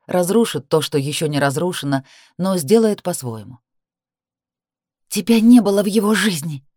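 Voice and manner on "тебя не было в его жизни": hissed. A narrator's reading. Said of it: "зашипела я".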